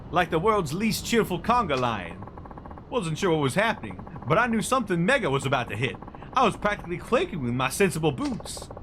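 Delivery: high, loud, gushing photographer voice; an over-eager paparazzo spotting his big shot; excitable photographer. Acted. Mac voice again.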